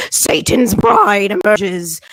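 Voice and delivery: slow, loud doom-laden pronouncement; mock horror. Congregation gasping at a whispered word, slow and ominous. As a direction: intone it like a scandalized church crowd.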